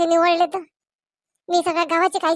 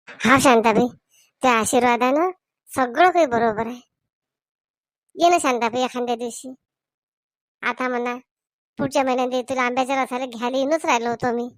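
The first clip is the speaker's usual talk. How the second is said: a brother speaking calmly on the phone, a touch lower; Zabru voice; 4 semitones lower than usual. Acted. Zabru answers his sister on phone.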